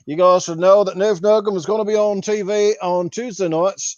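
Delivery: English-Australian accent as a put-on podcast host; lightly done English accent, half Australian. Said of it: "that was English slash Australian".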